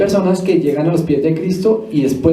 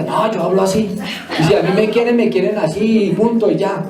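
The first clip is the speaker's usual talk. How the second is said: defiant mock quote; 3 semitones higher than usual. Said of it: "Lo primero que decimos allá".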